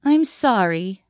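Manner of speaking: slow, gentle I'm sorry; tender apology. Acted. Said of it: "Shirley Ann said again".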